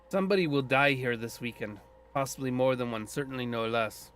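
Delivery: light Scottish brogue, foreboding; lightly voiced grim Scottish druid; Scottish accent, ominous. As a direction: warn of death in a hint of Scottish lilt. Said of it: "I'm giving him a Scottish accent".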